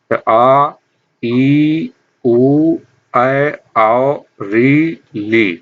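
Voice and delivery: each long vowel आ, ई held about twice as long; long vowels demo. Shown as a demonstration. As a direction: draw out आ, ई, ऊ clearly, one by one. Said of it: "इनमें दुगुना समय लगता है".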